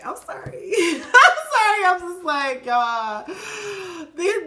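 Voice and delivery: half sobbing, half laughing; laughing through tears. Real, not acted. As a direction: apologise while tears and laughter mix. Overcome while reading her cards.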